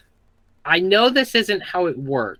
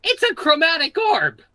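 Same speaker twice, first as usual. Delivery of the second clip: high, loud excited exclamation; excited call-out; 11 semitones higher, 5 dB louder than usual. Real, not acted. Player calling out the spell mid-description, excited shout. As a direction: shout it out over the table. Player calls out over the game master.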